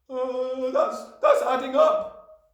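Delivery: high, stammering schoolboy; flustered Wilfred crying out. A narrator's reading. Wilfred answering the headmistress, high and flustered. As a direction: cry it out slowly, hesitating in panic. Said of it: "Wilfred cried".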